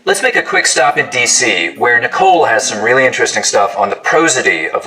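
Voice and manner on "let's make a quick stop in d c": fast Baltimore Danny Ocean for down the ocean; Baltimore accent. Shown as a demonstration. Host doing a Baltimore accent for fun. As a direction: Baltimore Hon voice. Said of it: "Go gets maybe even a little further forward".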